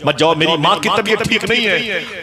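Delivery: child's plea retold, pitch climbing high; imitated desperate appeal; tearful pleading. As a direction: beg them to stay, voice rising as you repeat. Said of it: "आंखों में आंसू आ गए".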